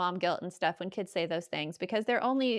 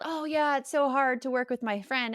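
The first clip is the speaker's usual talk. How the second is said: mocking quote; 5 semitones higher than usual. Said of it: "you see these things about".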